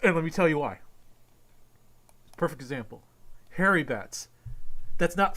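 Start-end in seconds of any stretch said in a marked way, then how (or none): 0.0-0.8 loud, heated call-out; angry rant. Real, not acted. Ranting at Doug Walker, loud and angry. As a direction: tear into him, raising your voice.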